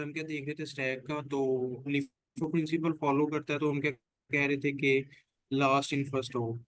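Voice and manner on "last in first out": very slow, spaced words; slow emphatic. Shown as a demonstration. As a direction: say each word slowly for students. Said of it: "teacher repeats acronym slowly". (धीरे-धीरे ज़ोर देकर)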